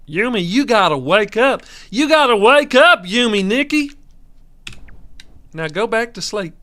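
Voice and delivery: high, loud put-on voice urging her to wake; hammed-up alarm call; mock wake-up voice. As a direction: squeak at her to get up. Voicing someone waking Yumi.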